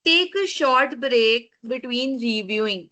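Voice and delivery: slow, deliberate reading; reading slide point. Shown as a demonstration. Teacher reading a proofreading tip off the slide, slow. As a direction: read each word of the point out slowly.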